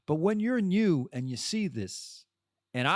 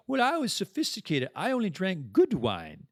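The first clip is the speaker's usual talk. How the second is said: higher-pitched, hammed-up British put-on; mock British accent; 5 semitones higher than usual. Guest speaker excusing her drinking, mock British accent. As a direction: imitate them with a half-hearted British accent. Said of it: "I don't have the British accent".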